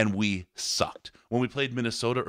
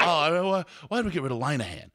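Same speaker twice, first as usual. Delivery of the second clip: mock fan whine; 6 semitones higher than usual. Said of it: "people still think about".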